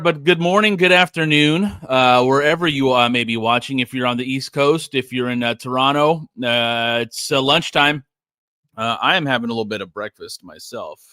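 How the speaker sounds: talking with a mouth full. Real, not acted. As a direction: talk through a mouthful of breakfast. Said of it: "me talking with my mouth full".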